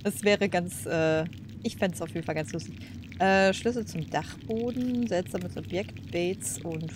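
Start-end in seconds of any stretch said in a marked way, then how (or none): none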